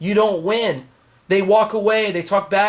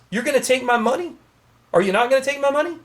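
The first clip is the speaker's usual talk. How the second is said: rising rhetorical challenge; 5 semitones higher than usual. Real, not acted. Rhetorical questions building.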